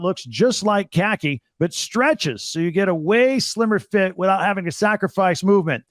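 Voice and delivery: brisk upbeat sponsor read, a bit fast in places; host-read podcast ad, upbeat and pitchy. Acted. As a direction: sell the shorts like a radio spot.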